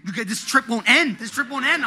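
high, loud frantic complaint; acted meltdown, pitch climbing; panicked despair. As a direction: wail it in mounting disbelief. Retold despair while searching bag.

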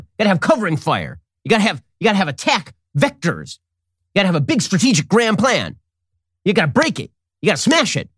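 rally the troops over nothing; mock Bannon war talk. Commentator mocking Bannon, pumped-up mock war speech. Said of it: "this is how Bannon talks all the time".

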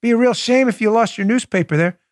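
mock mob threat aimed at the Post; shakedown line. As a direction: sneer it like a hood. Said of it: "Shakedown artists".

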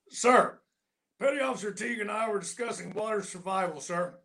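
straight-faced excuse to the Admiral; mock-earnest report to a superior; stiff military reply. Gunny answering the Admiral.

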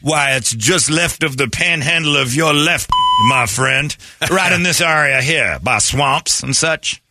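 high folksy Southern voice; sweet-talking Southern lawman; drawling Southern sheriff. Acted. Voicing Arpaio showing Georgia.

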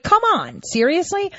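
can't believe what you're hearing; exasperated disbelief. Retold or imitated. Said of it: "I'm like".

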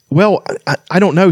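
flustered and pleased, tripping over the words; a flustered Flint stammering at the dragon; stammering dwarf. A narrator's reading. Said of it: "stammered Flint".

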